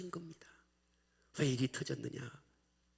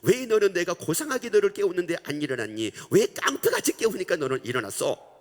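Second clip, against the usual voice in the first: loud exasperated scolding, near tears; mother scolding; 5 semitones higher, 7 dB louder than usual. Retold or imitated. Mother confronting her child, loud and tearful. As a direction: pour out the grievance, rising and loud. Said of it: "라고 얘기를 하니까".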